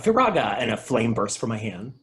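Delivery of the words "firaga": loud high battle cry; shouted spell name. Retold or imitated. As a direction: yell the spell like an anime hero. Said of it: "I have this cool move where I shout".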